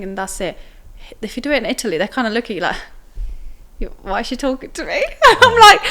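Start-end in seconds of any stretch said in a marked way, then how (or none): 3.8-5.0 laughing mock local. Italians' reaction imitated, laughing. 5.2-5.8 loud laugh. Real, not acted. Speaker laughing about cultural differences, high and loud.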